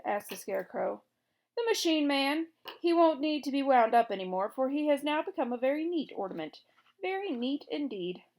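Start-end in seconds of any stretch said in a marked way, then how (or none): 1.6-8.2 higher, louder gloating king. A narrator's reading. Gnome King boasting to the Scarecrow, higher and gloating. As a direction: crow over the new ornament.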